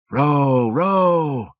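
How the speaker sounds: high, loud calling her name; urgent cry. A narrator's reading. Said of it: "he cried".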